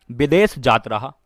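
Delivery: "विदेश जात रहा" with Bihari "जात" for "जा". Shown as a demonstration. Teacher showing students the Bihari "जात रहा". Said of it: "जात रहा बिहारी में बोलते हैं ना".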